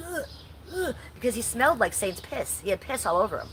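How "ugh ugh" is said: imitated disgusted groan. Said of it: "Aldi was standing there going".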